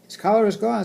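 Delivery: put-on little girl voice. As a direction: call it out like an excited child. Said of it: "said Lucy".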